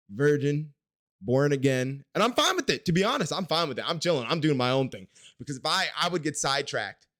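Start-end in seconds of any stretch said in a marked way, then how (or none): 2.1-5.1 defensive insistence. Real, not acted. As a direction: insist on it, pitched up and loud. Protests being fine with single life.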